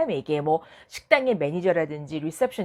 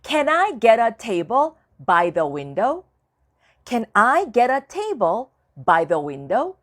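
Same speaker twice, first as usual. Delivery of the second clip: slow, careful model sentence; slow demo; 2 semitones higher, 6 dB louder, much slower than usual. Shown as a demonstration. Teacher reads a model request slowly to students. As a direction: spell it out slowly for learners. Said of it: "teacher models sentence slowly".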